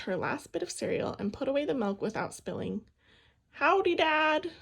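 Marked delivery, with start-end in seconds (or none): 3.5-4.5 slow, louder drawn-out call. A narrator's reading. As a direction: call out to Dad across the room. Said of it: "she called".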